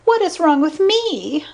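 high-pitched put-on woman's voice; insistent blonde. A narrator's reading. Blonde asking Spencer to find her faults, high and insistent. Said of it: "the blonde with a feather cut was insisting".

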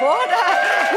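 bright burst of laughter; real delighted laugh. Real, not acted. Laughs at getting American passport.

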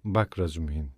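low, measured and word by word; forced calm, deliberate. A narrator's reading. Raskolnikov addresses his insistent friend, with controlled calm. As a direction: try to sound calm. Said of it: "sakin görünmeye çalışarak ve tane tane".

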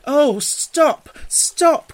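high, loud, overwhelmed outburst; ecstatic cry. A narrator's reading. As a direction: cry out in sheer delight. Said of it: "cried the mole in ecstasies".

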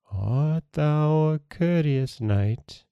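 high, slow, hollow ghostly question. A narrator's reading. Ghost challenging the frightened prince, slow and hollow. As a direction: float each word out slowly like a phantom. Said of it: "she asked in a hollow voice".

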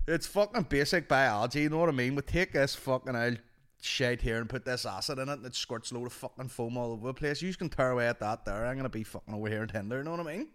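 lightly voiced lad running a science class; casual sweary teaching patter; a hint of careless hard-man teacher; rough-lad teacher. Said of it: "what the fuck could he possibly be teaching".

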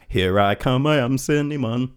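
lightly put-on cereal mascot voice; a playful hint of a commercial cartoon character; cinnamon guy. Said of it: "the cinnamon guy from the Apple Jacks commercials".

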